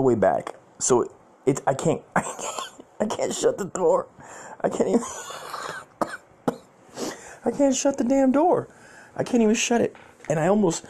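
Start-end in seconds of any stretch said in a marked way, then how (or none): 1.7-10.8 higher, laughing disbelief; giggling as he can't finish the line; laughing through it. Real, not acted. Retelling how the broken car door wouldn't shut, laughing.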